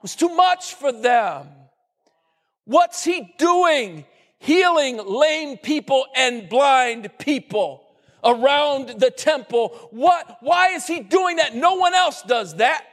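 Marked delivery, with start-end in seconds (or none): 2.6-12.8 mock outrage from the temple leaders; lightly voiced priests sputtering at Jesus; indignant chief priests.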